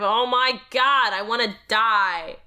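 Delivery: exasperated outburst. Acted. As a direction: let the dread of the form burst out.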